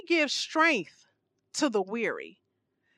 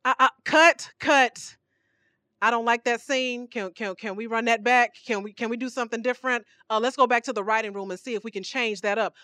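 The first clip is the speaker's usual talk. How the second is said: imitating a fussy director calling cut; lightly voiced director; mock director; 2 semitones lower than usual. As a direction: play the meddling director, stammering. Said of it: "you come in and say".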